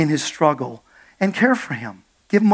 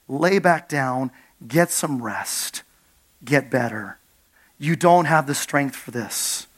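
tender reassurance; 5 semitones lower than usual. Acted. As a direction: ease him down gently, slowly. God gently telling Elijah rest.

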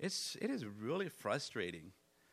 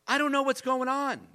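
high, louder mock of his frustrated wife; imitating his wife; 11 semitones higher, 9 dB louder than usual. Pastor mimicking his wife Dawn's frustration, high mock voice. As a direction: voice her exasperation, pitched well up. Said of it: "she goes".

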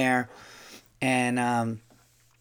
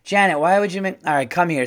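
higher, lightly hammed-up exasperated older lady; mock gripe at a coworker, pitched up; sitcom old-school woman; 4 semitones higher, 3 dB louder than usual. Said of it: "it was like a sitcom character".

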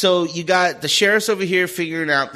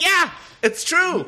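laughing agreement; 14 semitones higher, slower than usual. Real, not acted.

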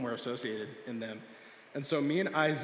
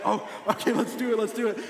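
put-on high, loud, eager kid; acted excitement; 8 semitones higher, 7 dB louder than usual. Excited boy agreeing to a pool dare, high and loud. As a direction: imitate an excited friend jumping at it. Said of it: "he's getting excited".

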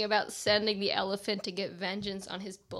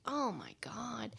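slow stunned whisper; 8 dB quieter, slower than usual. Retold or imitated. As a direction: breathe it out in disbelief. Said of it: "You're just like".

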